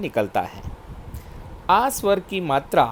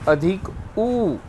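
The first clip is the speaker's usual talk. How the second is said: slow demo; 3 semitones higher, much slower than usual. Shown as a demonstration. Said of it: "इसका घुमाव दाईं ओर होता है".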